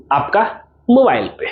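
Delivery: ordinary talk, nothing marked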